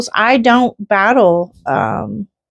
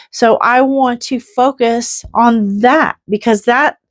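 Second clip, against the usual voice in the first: getting all excited; 4 semitones higher than usual. Real, not acted. Woman on her vlog talking about faith, rising higher with real excitement. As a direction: pitch lifted higher, fervent and building. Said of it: "listen to me getting all excited over here".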